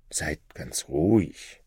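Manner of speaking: slow hushed whisper; calm him quietly, almost secretly; reassuring whisper. Acted. Scholar promising the shadow secrecy, whispered.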